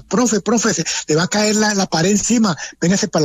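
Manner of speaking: calling out in alarm, voiced high; retold shout. Surgeon warning the doctor about the falling wall, high retold yell. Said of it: "el doctor me gritaba".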